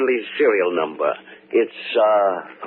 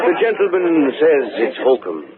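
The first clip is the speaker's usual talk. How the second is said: amused; 4 semitones higher, 3 dB louder than usual. Acted. Performer jokes back at heckler.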